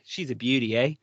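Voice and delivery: lightly put-on Australian catchphrase; Australian accent. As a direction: toss it off in a mild Australian accent. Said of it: "do my Australian accent".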